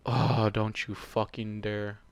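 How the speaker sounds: ordinary delivery, nothing marked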